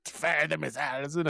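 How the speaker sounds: laughing command. Pretend. Laughing mock order.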